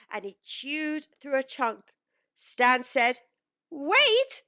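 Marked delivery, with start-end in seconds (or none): 3.7-4.4 a sudden, higher, louder cry of Wait; startled shout. Acted. Boss Stan spots the tooth in the trunk, sharp startled shout. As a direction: stop him short with a sharp call.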